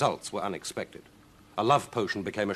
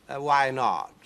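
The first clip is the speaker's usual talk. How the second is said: cat voice; 5 semitones higher, 6 dB louder, slower than usual. Acted. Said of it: "said the cat".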